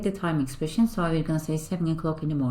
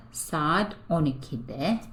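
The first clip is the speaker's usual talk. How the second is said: slow model pronunciation; slower than usual. Shown as a demonstration. Teacher gives answer slowly.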